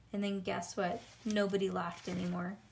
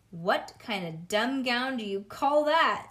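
loud, slow sneering bully; bully taunting classmate; mocking jeer; 3 semitones higher, 6 dB louder than usual. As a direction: jeer at the clown gown.

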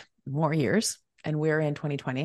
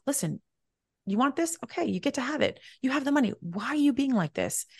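higher-pitched reasoning with yourself; retold pep talk, pitched up; coaxing self-talk; 8 semitones higher than usual. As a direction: talk some sense into yourself. Giving herself a firm talking-to.

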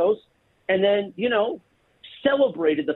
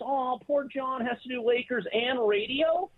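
mock pity; 8 semitones higher, 4 dB quieter than usual. Co-host mocking John's rant about working too much, mock pity. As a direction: play up the poor-me whine, high-pitched. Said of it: "went on his rant".

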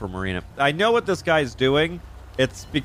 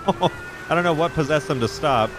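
laughing it off after a scare; shaky relieved chuckle; relieved laughter; 4 semitones higher than usual. Real, not acted. Laughs after near crash.

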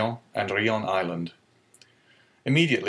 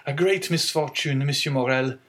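put-on higher, sorrowful young sailor's voice; grieving young sailor; 5 semitones higher than usual. Young sailor tells the owner of the misfortune, sorrowful. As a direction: break the bad news gently.

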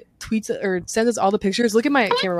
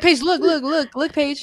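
eager attention-seeking; 5 semitones higher, slower than usual. Retold or imitated. Acting out someone seeking attention.

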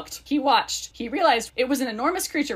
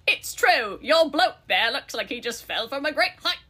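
bad Cockney accent for a talking bird. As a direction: put on a rough attempt at Cockney. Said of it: "without my bad accent".

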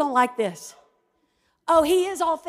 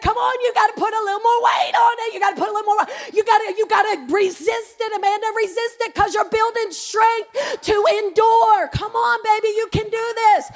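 hint of an urging gym coach; pushy trainer; 5 semitones higher than usual. Trainer urging a client to resist, mildly mimicked pep talk. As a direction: push them through one more rep, raised pitch.

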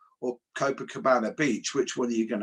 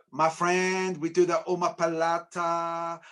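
slow, slightly raised put-on Brazilian Portuguese accent; fake Brazilian accent; 4 semitones higher, slower than usual. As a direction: imitate a British guy faking a Brazilian accent. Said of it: "speak with a Brazilian Portuguese accent".

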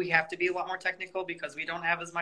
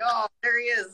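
hearty bro greeting; 8 semitones higher, 3 dB louder than usual. Retold or imitated. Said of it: "And I'll be like".

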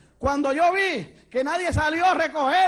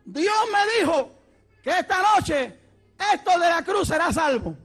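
slightly raised prophetic proclamation; acted church announcement; 5 semitones higher than usual. Brother-in-law telling the church God's word, acted proclamation. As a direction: announce it in measured phrases, lightly voiced. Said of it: "Se paró frente a la iglesia y dijo".

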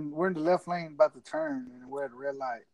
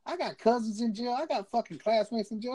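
higher-pitched retold bravado; talking shit; 5 semitones higher than usual. Bragging to the trooper about friends in jail, talking shit. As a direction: rattle off the boast as imitated backtalk. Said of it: "started talking so much shit".

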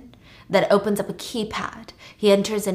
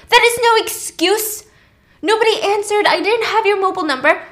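cold anger; 10 semitones higher, 5 dB louder than usual. Acted. Virgil berating Claire on phone.

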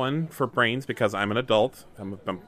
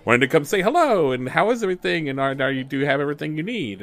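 eager greeters; faster than usual. Acted. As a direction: gush a welcome, pitch swooping up.

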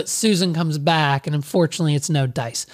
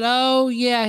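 lightly pitched-up phone voice; female voice; 5 semitones higher than usual. Retold or imitated. Guest mistaken for his partner on the phone, female voice. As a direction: imitate a woman answering, a little higher. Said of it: "the female voice".

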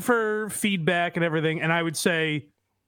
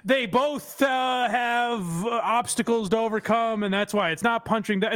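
higher, halting, hedging voice; mock hand-wringing critic; 4 semitones higher than usual. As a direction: stammer out excuses nervously. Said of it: "twist themselves into a pretzel saying".

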